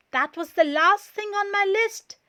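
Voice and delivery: high, loud and fast with glee; eager high exclaiming; excited. A narrator's reading. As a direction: announce it in relief. Todd excited realization.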